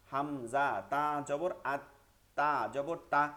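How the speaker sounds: each syllable drawn out slowly for students to copy; slow spelling drill. Shown as a demonstration. Teacher slowly spells the word for students to repeat. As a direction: spell it slowly so the class can follow. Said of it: "বানানটা আমার সাথে কয়েকবার করেন".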